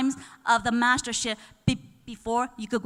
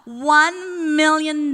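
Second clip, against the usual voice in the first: excited; 5 semitones higher, 14 dB louder, much slower than usual. Real, not acted. Climactic reward reveal, cheering.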